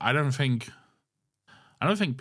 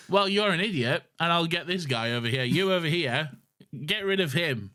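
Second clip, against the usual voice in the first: higher mock-indignant ordering about; imitating an affronted diner giving orders; indignant woman; 5 semitones higher than usual. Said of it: "she's like".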